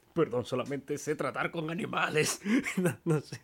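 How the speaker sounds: laughing. Acted. Vet laughing while talking.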